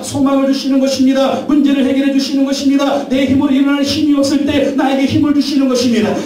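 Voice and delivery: mounting preacher's fervour; rising preaching. Acted. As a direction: lift the congregation, pressing each line. Preacher building to the climax.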